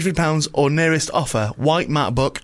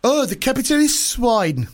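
high, slow hammed-up Russian accent; mock Russian Putin; 7 semitones higher, slower than usual. Putin on the phone to Obama in a hammed-up Russian accent. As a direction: sneer it as a cartoon Russian villain. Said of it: "probably a Russian one".

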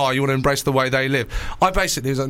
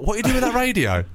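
put-on imagined angry boyfriend; 8 semitones higher than usual. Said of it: "I imagine he answered the door".

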